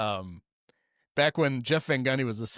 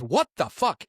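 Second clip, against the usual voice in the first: mildly raised mock yell; higher-pitched retold outburst; 5 semitones higher than usual. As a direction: imitate an outraged yell, half-strength. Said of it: "And he yells".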